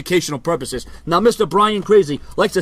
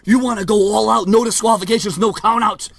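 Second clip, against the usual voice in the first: wrestling promo. Acted. Vlogger taunting his rival Brian in wrestler promo style. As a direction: cut a promo like a heel wrestler.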